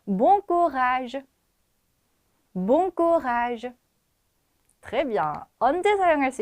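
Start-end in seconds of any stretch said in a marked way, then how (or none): 0.1-3.7 Bon courage said slowly and clearly, held out; model pronunciation. Shown as a demonstration. French teacher models the phrase for students, slow model pronunciation. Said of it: "한번 말해 볼게요".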